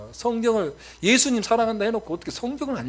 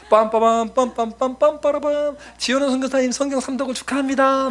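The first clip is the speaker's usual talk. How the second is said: high, chanted mock trumpet fanfare; angels' fanfare; 8 semitones higher, 5 dB louder than usual. Angels congratulating him on Bible reading, comic fanfare proclamation. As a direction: imitate a heavenly herald, high and loud. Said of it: "천사들이 이열 종대로 서 있고 빵빠레 들면서".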